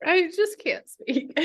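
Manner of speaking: mouth full of hot food. Real, not acted. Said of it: "I took a really big bite".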